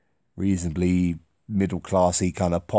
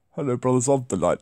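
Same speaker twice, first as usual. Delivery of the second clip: Edward voice; 2 semitones higher, faster than usual. Acted. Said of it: "read it in a voice I've done before".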